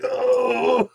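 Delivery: a pained grunt from getting up, mimicked high; imitated grunt. Teasing a friend by imitating his grunt when standing. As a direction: voice the old friend's groan as he stands, lightly mocking. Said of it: "Now he's grunting".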